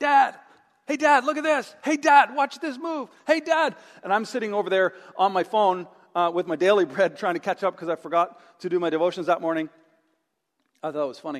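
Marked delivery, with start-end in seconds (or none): 0.0-3.7 put-on eager child voice, high, loud and excited. Father retells his kid on the diving board calling for attention; imitating a child calling out. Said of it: "there's always one standing on the diving board going".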